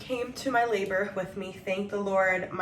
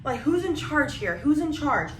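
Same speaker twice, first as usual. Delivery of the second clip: imitated screaming; 6 semitones higher than usual. Grandma demands whoever is in charge, mild mock scream. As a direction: demand it in a raised, high-pitched imitation. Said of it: "My grandma starts screaming".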